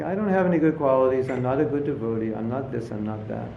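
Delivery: mock downhearted devotee; feeling bad. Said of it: "some devotees feel very bad about themselves".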